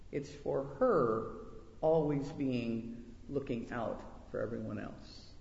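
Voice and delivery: unhurried storyteller reading to the congregation; story reading. A narrator's reading. Preacher reading a story to the women, unhurried storytelling. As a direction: tell the tale gently to the listeners. Reads story of mother's creation.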